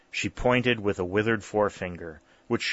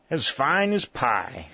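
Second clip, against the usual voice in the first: exultant; 4 semitones higher, slower than usual. A narrator's reading. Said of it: "exclaimed Jarvis exultantly".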